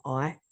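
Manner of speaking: "like" with the I saying its name; teacher's "like". Shown as a demonstration. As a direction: model "like" with a long I, as in "eye". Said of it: "make the I say its name".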